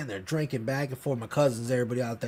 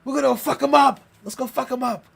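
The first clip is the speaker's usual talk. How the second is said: put-on drunk rallying cry; 8 semitones higher, 4 dB louder than usual. Rallying brothers against tree.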